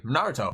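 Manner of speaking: NARUTO with an English R and last syllable "toe"; anglicised Naruto; English pronunciation. Shown as a demonstration. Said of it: "This is how we pronounce his name".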